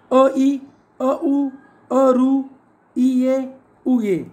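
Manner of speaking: differing vowels sounded out in pairs; a small gap after each vowel pair; unlike vowel pairs recited. Shown as a demonstration. Teacher shows five unlike vowel pairs, sounded out in twos. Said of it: "विजातीय स्वरांच्या जोड्या किती आहेत".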